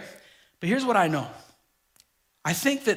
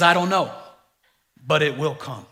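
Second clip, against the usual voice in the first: with authority. Retold or imitated. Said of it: "he said it with authority".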